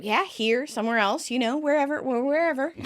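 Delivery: mildly nervous, stumbling backpedal. Retold or imitated. Chandler edging away from forever, nervous. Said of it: "Chandler nervously gets up".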